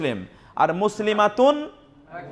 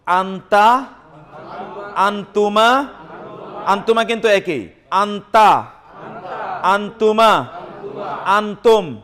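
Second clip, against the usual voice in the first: drilling recitation; slower than usual. Shown as a demonstration. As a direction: recite each form for the class to copy. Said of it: "মুখস্থ করি". (ধীরে জোরে মুখস্থ করানো)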